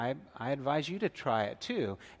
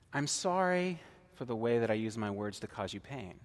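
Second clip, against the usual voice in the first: a heartfelt apology modelled for the congregation; sincere apology. Shown as a demonstration. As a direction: say it gently, meaning every word. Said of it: "you could say it this way".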